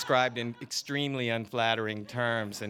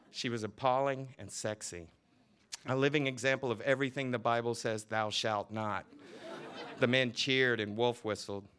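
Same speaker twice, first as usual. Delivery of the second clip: lively novel reading, voicing each character; story reading; 3 semitones higher than usual. A narrator's reading. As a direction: read the scene aloud with relish. Author reads novel scene aloud.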